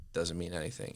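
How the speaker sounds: breathy whisper, "Doesn't mean anything." tossed off; whispered dismissal. Retold or imitated. Hiring manager to himself about a résumé, whispered. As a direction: mutter it under your breath, unimpressed.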